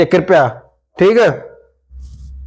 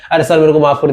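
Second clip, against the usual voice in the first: mock begging apology; 3 semitones lower, much faster than usual. Shown as a demonstration. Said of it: "बहुत ज्यादा माफी मांगना".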